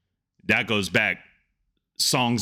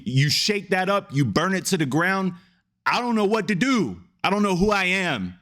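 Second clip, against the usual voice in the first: climbing higher and higher into panicked pleading; desperate plea to God; 7 semitones higher than usual. Retold or imitated. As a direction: ask God, lost and frightened, pitch rising all the way. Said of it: "he's looking up at God like".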